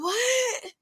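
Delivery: a single high what; incredulous what. Retold or imitated. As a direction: ask it back, sure you misheard. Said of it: "And I'm like".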